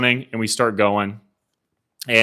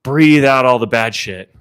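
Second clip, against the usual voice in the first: slow, drawn-out breathing coach chant; hype lady; 3 semitones higher, 3 dB louder, slower than usual. Retold or imitated. Imitating the lady hyping up racers before launch, drawn-out coaching. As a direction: stretch out each "breathe" like a coach. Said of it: "the lady is hyping us up".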